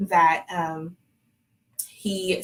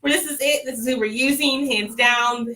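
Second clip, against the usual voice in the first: higher, laughing, retold excitement; excited certainty; 4 semitones higher than usual. Patient retelling how she chose her donor, excited. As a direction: declare the choice with giddy conviction.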